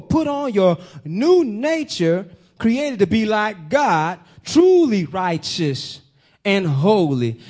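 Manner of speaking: slow, weighty scripture reading. Real, not acted. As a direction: read each phrase slowly like holy writ. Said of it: "New Living Translation says".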